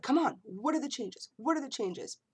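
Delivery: playful eager demand; impatient. Retold or imitated. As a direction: hurry the video along, exasperated. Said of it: "sitting there like".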